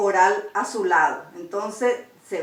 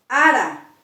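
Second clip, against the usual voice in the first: "ara" stressed on the first a, falling away; firm first a in "ara", light last one; penultimate stress; 3 dB louder than usual. Shown as a demonstration. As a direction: hit the opening vowel of "ara". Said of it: "se acentúa la penúltima".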